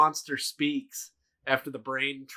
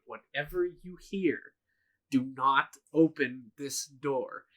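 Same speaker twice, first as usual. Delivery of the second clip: retold grave order. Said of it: "he says to them before he goes in".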